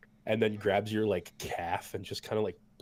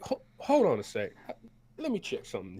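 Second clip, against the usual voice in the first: folksy cook; 4 semitones higher, faster than usual. Acted. The cook hands bowls to the battered party, high and folksy. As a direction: play the big cook fussing over them. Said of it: "he's like".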